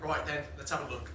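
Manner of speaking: low British chef voice with a clipped Right then; Gordon Ramsay impression. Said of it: "He's like".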